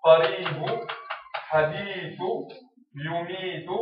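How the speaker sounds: teacher's example words with the ī held long in قريب، حديث، يميت; long-vowel demo. Shown as a demonstration. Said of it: "نعطيكم أمثلة في الكلمات والجمل".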